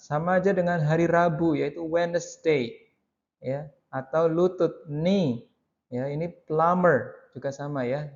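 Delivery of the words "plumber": plumber pronounced with no B; plumber, silent B. Shown as a demonstration. Teacher compares it with other silent letters, plumber without B. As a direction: model plumber, leaving the B out. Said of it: "Jadi B-nya tidak dibaca".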